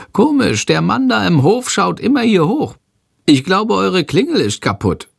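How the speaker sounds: small excitable creature, voice pitched well up; a fidgety little dragon puzzling at the window; high creature voice. Acted. Shandor wondering about the man in the yard, high and curious. Shandor speaks, narrator voicing.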